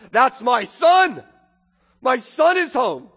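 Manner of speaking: loud, drawn-out proud cry; overjoyed father. Acted. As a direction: announce it as a father bursting with joy.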